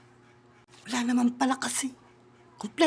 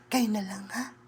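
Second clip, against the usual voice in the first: hushed aside; soft whispered aside; 4 semitones lower, 5 dB quieter than usual. Real, not acted.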